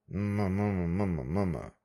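hum. Acted. The manager hums.

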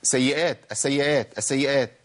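سيئات and السيئات run off short, doubles unheld; quick, light s and y in each السيئات; lightened doubling. Shown as a demonstration. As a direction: repeat السيئات skimming the s and y. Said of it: "خففت الحرف المشدد".

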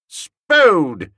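a sharp, loud call of his name; sharp cry. A narrator's reading. Wooster to Spode, halting him: sharp loud cry. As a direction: Wooster calls out sharply to stop Spode banging. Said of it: "I cried sharply".

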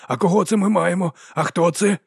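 high, loud cooing questions; excited baby talk, high and bright-eyed; delighted greeting. Acted. Man greets the newborn baby.

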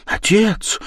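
high sudden cry of отец. Acted. Daughter cries out to her father to forgive, high cry. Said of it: "вскричала Катерина".

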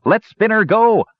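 high, loud crowd cry; angry shout from the crowd; shouted demand. Acted. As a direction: demand his release. Crowd member demands release.

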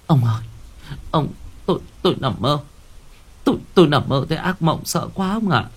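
stammering, a touch scared; frightened wife. Acted. Wife tells husband of her nightmare, stammering and scared. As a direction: stutter out the nightmare.

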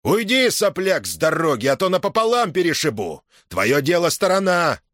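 shouting threat. Acted. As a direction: bellow him out of the way. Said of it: "закричал". (угрожающий крик)

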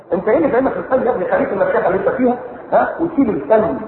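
fast, dismissive brush-off; a scornful art lover waving him off; mock condescending. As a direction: talk down to the sheikh. Mocking arrogant art defender.

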